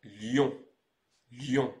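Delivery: LYON as a clear French citron-like nasal ending; pronunciation demo. Shown as a demonstration. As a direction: model LYON for learners, evenly. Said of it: "au niveau de la prononciation, on va dire".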